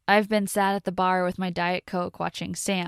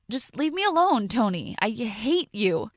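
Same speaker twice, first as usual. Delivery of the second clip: angry rejection; 4 semitones higher than usual. Acted. She pushes Tony away.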